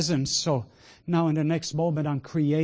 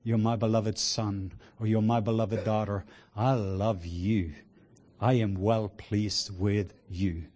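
tender Father's voice; 3 semitones lower, slower than usual. Retold or imitated. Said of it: "the voice of the Father saying".

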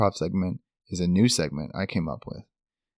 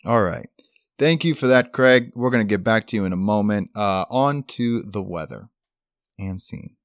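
anchor wrapping up the segment; news anchor voice. Acted. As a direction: sign off like TV news. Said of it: "full news anchor voice".

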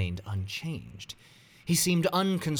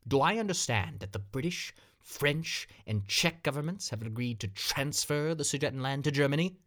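slightly raised, questioning disbelief; reading in disbelief; 6 semitones higher than usual. Acted. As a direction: ask it as if you can't believe it. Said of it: "in an almost incredulous tone".

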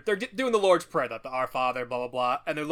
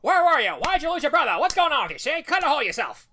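higher, louder angry yelling; angry father; 10 semitones higher, 5 dB louder, faster than usual. Retold or imitated. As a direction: yell at the kid in a panic.

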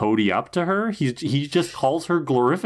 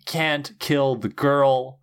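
Ben's voice; 3 semitones higher, much slower than usual. Retold or imitated. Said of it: "she morphs into Ben".

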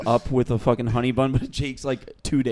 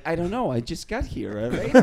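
talking snake; 6 dB quieter than usual. Acted. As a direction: play a snake talking quietly. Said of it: "A snake is like".

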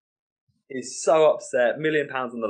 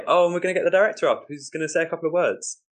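raised, brisk emcee announcement; host's introduction; 8 semitones higher, faster than usual. Acted. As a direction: lift it up to introduce a guest to the room. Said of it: "I then say".

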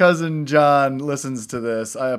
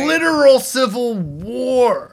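laughing; 6 semitones higher, 4 dB louder than usual. Real, not acted. To friends about politics, laughing. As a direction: laugh through it, slow and high.

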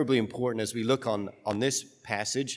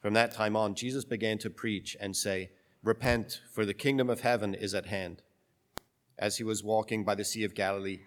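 solemn, measured scripture reading; gospel reading. Acted.

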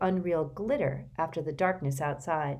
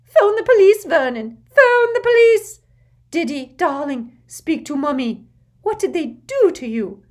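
very high loud scream; 11 semitones higher, 12 dB louder than usual. Acted. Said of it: "Aunt Petunia screamed".

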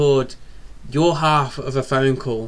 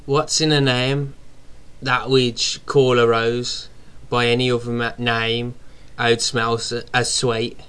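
a bad, light Brummie accent; slower than usual. Shown as a demonstration. Co-host reads Shakespeare as a Brummie, in a bad Brummie accent. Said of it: "you do a better Brummie than me".

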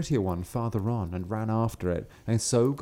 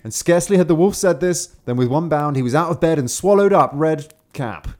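dramatic narration; 5 semitones higher, 9 dB louder than usual. A narrator's reading. Dramatyczna kulminacja baśni.

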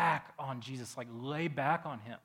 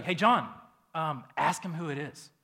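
calling across table; 2 semitones higher, 6 dB louder than usual. Retold or imitated. Peter urging John.

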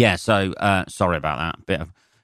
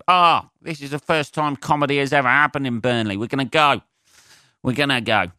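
higher, hammed-up eager punter; mock excited locals; 5 semitones higher than usual. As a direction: pretend thrilled first-time comedy fans. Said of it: "People thinking".

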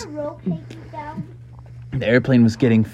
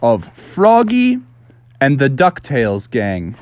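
lively storybook narrator, drawing out key words; read-along storyteller; 4 semitones higher than usual. A narrator's reading.

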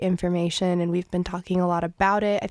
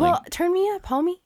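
playful retort; 10 semitones higher, faster than usual. Real, not acted.

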